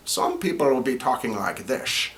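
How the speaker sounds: lightly shifted character voice; a hint of another Todd Army member; different voice. Shown as a demonstration. The voice actor showing his range, a slightly changed voice. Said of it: "a different dialect, a different voice".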